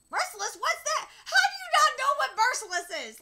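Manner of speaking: high, loud, laughing disbelief; mock incredulity. Reader scolds an imagined clueless person, mock incredulous. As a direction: yell it as if scandalised, half laughing. Mocks someone not knowing the word.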